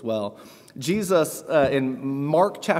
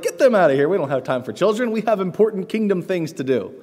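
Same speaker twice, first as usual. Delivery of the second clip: dismissive disciples; 5 semitones higher than usual. Retold or imitated. Preacher mimicking disciples rebuking parents, scornful and impatient. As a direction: shoo them away, we're too busy. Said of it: "So the disciples were like".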